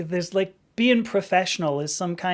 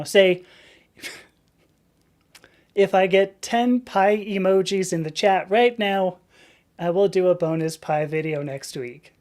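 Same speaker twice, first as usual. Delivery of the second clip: reading the dare. Shown as a demonstration. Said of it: "and this is a quote now".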